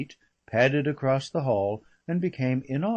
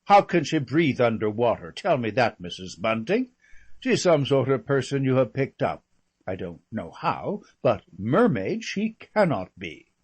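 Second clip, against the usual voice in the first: mock scornful lady; 6 dB louder than usual. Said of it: "the one down at the pavilion simply said".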